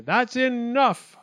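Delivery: high, slow, loud yell. A narrator's reading. Wildcat cuts off chattering acorns, high yell. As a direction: draw it out to stop the din. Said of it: "Wildcat yelled".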